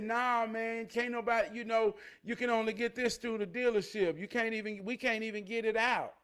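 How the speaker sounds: a hint of the Ford master, laid back; the mechanic's voice. A hint of the Ford master explaining the dealership program, laid back. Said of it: "That's how he talked".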